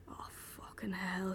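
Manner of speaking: slow, soft, exasperated whisper of defeat; despairing whisper. Acted. Kidnapper despairing that the captive knows where they are, slow whisper. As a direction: sigh it out under your breath, beaten. Neck despairs, rubbing his forehead.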